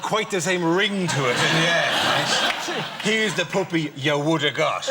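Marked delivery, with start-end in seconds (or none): 3.0-4.9 loud mock announcement. Handing over dead puppy joke.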